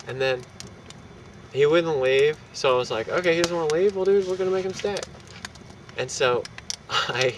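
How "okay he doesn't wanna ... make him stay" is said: snapping. Retold or imitated. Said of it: "I just kinda snapped".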